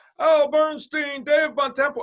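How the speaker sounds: loud, booming voice, very high pitch. Retelling how a man greeted people across a coffee shop, loud and booming. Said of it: "in this loud, booming voice".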